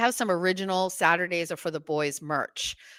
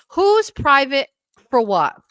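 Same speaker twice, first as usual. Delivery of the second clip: loud, high, drawn-out challenge; incredulous; 6 semitones higher, 8 dB louder, slower than usual. Real, not acted. Questioning a viewer's comment, loudly incredulous. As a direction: stretch the question out in disbelief.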